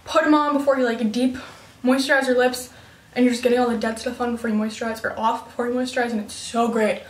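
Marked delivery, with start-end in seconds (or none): 1.9-7.0 talking while out of breath after running; breathless, catching breath between words. Real, not acted. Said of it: "I'm out of breath 'cause I just ran".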